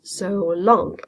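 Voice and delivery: So light, long stressed. Shown as a demonstration. Teacher showing the class where the stress falls, stress on long. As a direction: lean on long, not on So. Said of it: "the stress is on the word long and not on the word so".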